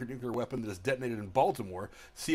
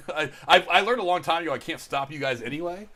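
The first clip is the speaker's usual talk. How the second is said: ordinary talk, nothing marked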